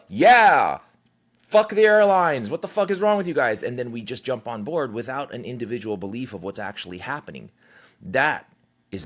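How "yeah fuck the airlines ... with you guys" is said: loud, high pretend rant at the airline staff; mock angry yelling. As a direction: yell it like someone swept up in an angry crowd. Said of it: "now we're just gonna be like".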